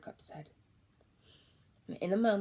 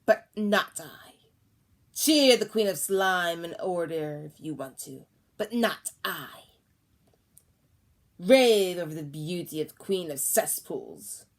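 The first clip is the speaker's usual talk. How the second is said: slow, defiant, louder; building yell; 4 dB louder than usual. Acted. Old woman defying the queen, building yell. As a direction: hurl the refusal at her. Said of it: "her voice getting louder and louder".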